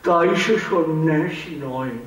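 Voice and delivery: measured poetic recital with long pauses; poem recitation. Acted. Reciter offers a poem by a lately deceased poet, measured recitation.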